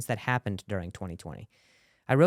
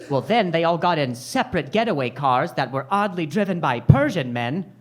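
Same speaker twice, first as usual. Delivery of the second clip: louder, slowing at the end; detective voice; 3 semitones higher, 6 dB louder than usual. Pretend. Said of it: "they'd be like".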